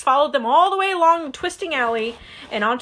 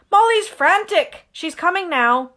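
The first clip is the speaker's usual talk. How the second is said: high, loud, slow worried report; a hint of a flustered father; Mr Weasley worried; 6 semitones higher, 4 dB louder than usual. Mr Weasley telling Harry Molly is frantic, worried.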